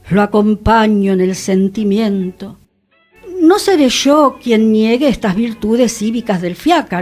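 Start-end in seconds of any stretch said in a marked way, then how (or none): 0.1-2.6 ritual condolence. Acted. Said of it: "a cumplir a los velorios y a decir el sacramental".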